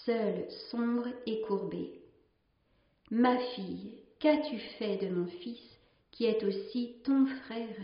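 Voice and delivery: measured storytelling read, lingering on the images; story narration. Acted. A nun reading a sea legend to her sisters, in a calm storytelling voice. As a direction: read the old tale aloud to the community, letting each line settle. Reads a tale aloud.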